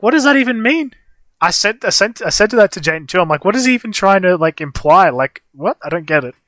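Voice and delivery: asking in honest confusion; baffled disbelief. Retold or imitated.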